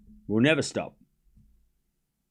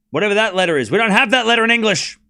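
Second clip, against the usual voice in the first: loud, higher-pitched protest; exasperated; 8 semitones higher, 8 dB louder than usual. Real, not acted. Streamer protesting a letter English lacks, exasperated. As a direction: raise your voice in exasperation.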